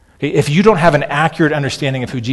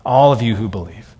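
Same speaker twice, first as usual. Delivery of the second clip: gentle invitation; 3 semitones lower, 3 dB quieter than usual. Retold or imitated. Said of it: "and Jesus saying".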